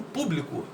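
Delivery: "público" stressed on PÚ; stress on first syllable. Shown as a demonstration. Teacher showing where the force goes, "público" stressed on PÚ. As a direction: lean on the PÚ in "público". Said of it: "sílaba pu".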